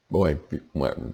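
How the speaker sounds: yawning mid-sentence. Real, not acted. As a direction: talk through a yawn. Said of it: "sorry to be yawning".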